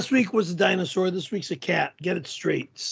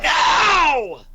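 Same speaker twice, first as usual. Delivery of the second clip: angry no; 5 semitones higher, 4 dB louder than usual. Real, not acted. Angry refusal.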